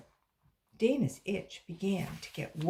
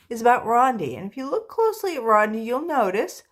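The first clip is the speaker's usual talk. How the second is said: emphatic; 5 semitones higher, 10 dB louder, faster than usual. Real, not acted. Reader to class, emphatic.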